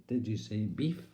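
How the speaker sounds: "beef" for Beath, rising as a question; impaired speech. Acted. Keith querying the lady's town, impaired "beef". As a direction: ask with "beef" ending on f. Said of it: "but as he said".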